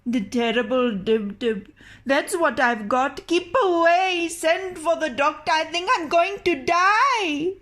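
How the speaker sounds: a frightened man begging for the doctor; panicked. Acted. Ali tells his wife he is dying, rising panic.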